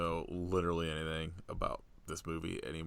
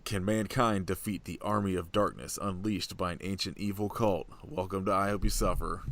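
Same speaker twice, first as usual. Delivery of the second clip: louder, booming horror trailer read; 4 dB louder than usual. Acted. Reads tagline after clearing throat.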